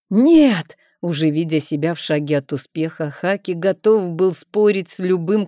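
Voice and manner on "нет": high, loud flat refusal; defiant shout. A narrator's reading. Haki defies the king with a loud high refusal.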